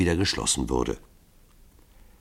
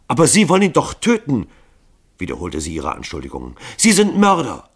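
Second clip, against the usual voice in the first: much higher, louder outraged cry; shrill accusation; 6 semitones higher, 6 dB louder than usual. A narrator's reading. Grunja angrily accusing the men of murder. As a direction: fling the word murderers at them. Daughter repeating accusation against killers.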